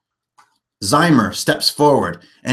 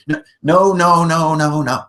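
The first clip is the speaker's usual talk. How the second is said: insistent no; 3 semitones higher, 4 dB louder than usual. Real, not acted. DM rejecting fiddly difficulty settings.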